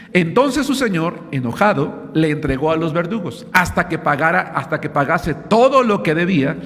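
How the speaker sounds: preacher reading the Gospel to the congregation, solemn; scripture reading. Acted. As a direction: proclaim the verses from the pulpit. Reads scripture aloud.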